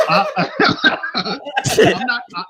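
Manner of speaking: laughing through the words. Real, not acted. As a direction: break into real laughter mid-sentence. Caught off guard, laughing.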